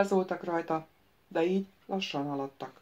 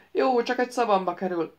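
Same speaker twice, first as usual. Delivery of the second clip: higher, cawing retort; croaking; 4 semitones higher, 5 dB louder than usual. Acted. The wizard croaks back at Xera: higher cawing. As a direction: caw it out like a crow. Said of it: "károgott Ikvit".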